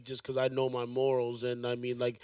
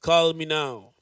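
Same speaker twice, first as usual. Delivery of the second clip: psychic hotline ad; 8 dB louder, slower than usual. Pretend. Miss Cleo psychic hotline slogan.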